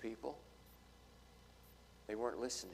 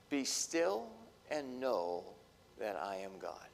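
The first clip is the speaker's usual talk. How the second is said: soft, slow scripture; 3 semitones lower, 6 dB quieter, slower than usual. Acted. Quoting scripture about stillness.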